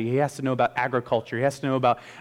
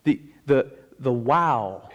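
usual speaking voice

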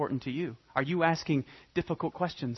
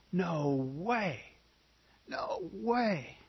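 stunned disbelief; 2 semitones higher, 6 dB quieter, much slower than usual. Acted. Acting stunned debtor.

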